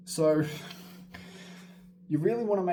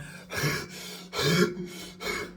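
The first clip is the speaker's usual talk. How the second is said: heavy panting breath. Shown as a demonstration. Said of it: "you're going".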